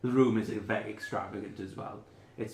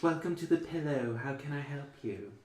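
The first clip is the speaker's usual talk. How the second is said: high elf receptionist; 5 semitones higher than usual. Acted. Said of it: "she goes".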